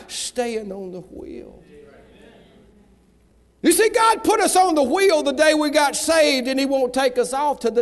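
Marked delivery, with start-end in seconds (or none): 0.1-1.6 sudden hush. Acted. Sudden soft drop after shouting.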